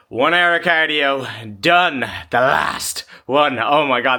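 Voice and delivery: high, slow triumphant announcement of "done"; elated cheer. Real, not acted. To viewers after his last cardio, proudly exclaiming. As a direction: celebrate finishing the final session out loud. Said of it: "I could get emotional".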